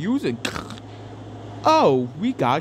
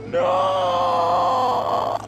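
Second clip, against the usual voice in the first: a sharp, very high shouted no; sudden shout. Real, not acted. Player yelps at the game in a very high shout. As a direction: yelp it out in protest.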